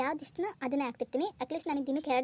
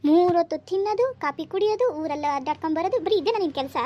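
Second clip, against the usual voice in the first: higher, much louder angry taunting; 4 semitones higher, 7 dB louder than usual. Acted. Husband shouting at his wife during their quarrel, angry and loud. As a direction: shout the list of his faults at him.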